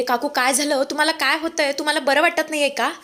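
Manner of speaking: worried questions, voiced with understated panic; panicked calling out. Young woman to her collapsing aunt, acted panicked calling. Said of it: "panic झालेली असते आणि जोरजोरात ओरडू लागते".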